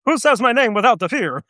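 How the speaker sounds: lightly voiced drill sergeant entrance; drill sergeant impression. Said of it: "the impersonation of".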